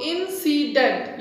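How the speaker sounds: इंसिडेंट in three pieces, in-ci-dent; split into syllables. Shown as a demonstration. Teacher repeating इंसिडेंट for students, syllable by syllable. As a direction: break इंसिडेंट at each syllable. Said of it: "three syllable division".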